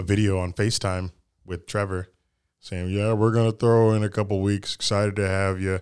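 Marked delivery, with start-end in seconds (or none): 2.9-5.8 flat monotone, dead flat with no lift. Quoting Trevor's FaceTime video message, Trevor monotone impression. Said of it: "Trevor's monotone voice".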